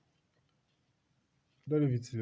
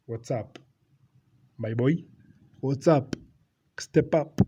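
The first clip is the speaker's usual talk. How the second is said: hyping him up; 2 semitones higher, 8 dB louder, slower than usual. Retold or imitated. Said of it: "trying to show that".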